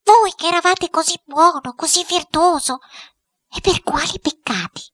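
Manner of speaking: high-pitched, put-on woman's voice; imploring headmistress. A narrator's reading. Headmistress questioning her uncle's spirit, high and imploring. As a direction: plead high with a revered spirit.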